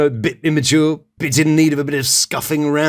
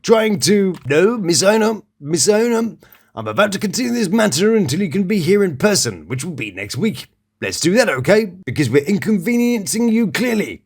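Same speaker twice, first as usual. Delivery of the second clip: put-on British accent. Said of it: "which I will read to you now in my delightful British accent".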